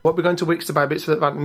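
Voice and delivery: thick Yorkshire accent, pleading. Shown as a demonstration. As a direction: lay on a broad Yorkshire accent. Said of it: "I always get a Yorkshire accent".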